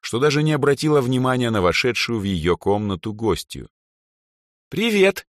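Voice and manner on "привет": bright, high cheerful greeting; cheerful teen chirp. A narrator's reading. Drow girl greets her bored friend, cheerful and high. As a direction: chirp it like a lively young girl. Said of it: "жизнерадостный голосок".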